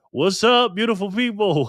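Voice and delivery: high, drawn-up excited hail; imitated catchphrase greeting. Streamer mimics Backpacker's video greeting, high and excited. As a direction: call it out like a channel host's big opener. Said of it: "I can hear him saying that too".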